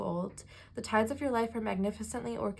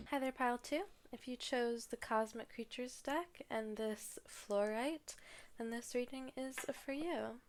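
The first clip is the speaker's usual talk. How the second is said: ASMR whisper; 2 semitones higher, 7 dB quieter than usual. Acted. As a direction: hush it down for ASMR. ASMR section begins.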